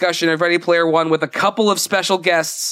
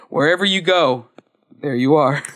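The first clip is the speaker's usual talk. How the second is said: imitated comforting line, dropping lower at the end; mock soothing; 3 semitones lower than usual. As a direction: play at soothing someone with a profound phrase. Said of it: "he soothes her by saying".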